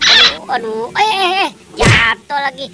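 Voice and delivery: high, loud startled aduh; a puppet yelping in alarm. Acted. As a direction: jump as he topples again. Friend falls over again.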